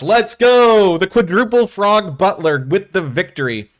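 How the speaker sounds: loud, high victory shout; celebrating a win, yelling; shrieking jackpot winner. Real, not acted.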